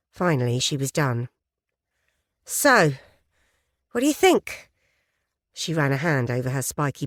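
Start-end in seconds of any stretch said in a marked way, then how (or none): 2.4-4.7 high, bright hopeful question; much higher, keen and hopeful; eager journalist. Acted. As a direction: angle for a yes. Eager journalist asks the biker.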